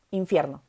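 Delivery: infierno with the weight on fier; stress on middle syllable. Shown as a demonstration. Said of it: "Sílaba tónica de infierno, fier".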